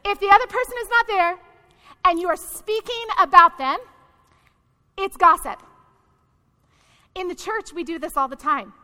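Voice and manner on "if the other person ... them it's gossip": quicker, higher run through "not there", pausing before "gossip"; pointed repeat. Real, not acted. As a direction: rattle off the rule pointedly, then drop in "gossip". Repeats definition after asking.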